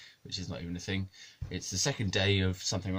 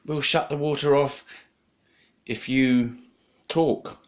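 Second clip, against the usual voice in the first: put-on Chinese accent; 3 semitones higher, 6 dB louder, slower than usual. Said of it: "That's my best Chinese accent".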